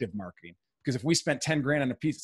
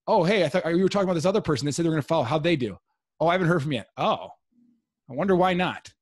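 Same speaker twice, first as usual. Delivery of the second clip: lightly played chat, quicker and higher; mock-casual, pitched up like a surprised caller; acted-out client exchange; 4 semitones higher, 3 dB louder, faster than usual. Playing out a seller's follow-up conversation, lightly acted.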